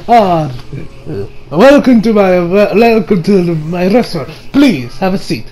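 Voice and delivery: lightly put-on Italian accent. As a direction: play a welcoming Italian restaurateur. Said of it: "I'm going to talk with an Italian accent".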